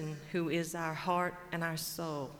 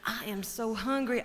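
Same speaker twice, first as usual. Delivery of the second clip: mournful buzzard. Acted. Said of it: "Buzzard says".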